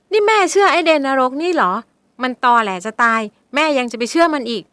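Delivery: high, loud, upset protest; arguing tearfully. Acted. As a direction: plead in disbelief. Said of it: "ชมดาวเถียงแม่เสียงสั่น".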